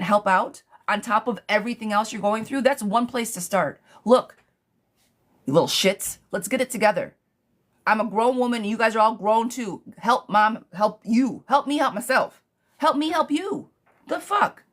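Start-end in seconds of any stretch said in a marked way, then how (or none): 4.0-13.7 mom laying down the law; mock stern mom lecture. Mother scolding her grown kids, mildly angry. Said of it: "Sorry, I'm getting mad for you". 14.1-14.6 high indignant burst; outraged on the listener's behalf; real flash of anger. Real, not acted. Reader indignant for the caller, higher. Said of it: "I'm getting mad for you".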